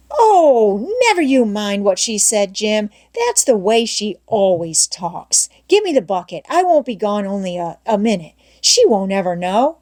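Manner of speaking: a lightly voiced coaxing boy; eager boy Tom. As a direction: coax him, bright and eager. Tom persuading Jim.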